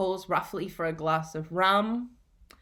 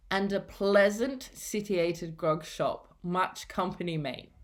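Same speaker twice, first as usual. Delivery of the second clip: lightly voiced old pirate, slow; a hint of a gruff old seaman, drawn out slowly. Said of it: "this character is going to talk like a pirate".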